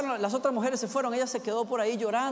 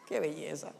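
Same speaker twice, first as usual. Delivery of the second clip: softer, lower murmured marvel; soft aside; 8 semitones lower, 9 dB quieter than usual. Real, not acted. Preacher marvelling at María's devotion, soft lower aside. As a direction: breathe it almost to yourself.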